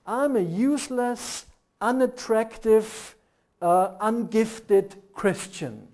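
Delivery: each word dragged out slowly, useless, unattractive, ungifted; drawn-out mock confession; slow dragged list. Shown as a demonstration. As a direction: spell out the self-insult slowly. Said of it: "You know how you behave?".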